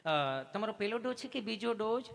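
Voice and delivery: mock a gushing nurse; sweet nurse voice. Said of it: "નર્સબેને એટલું પ્રેમથી પૂછ્યું".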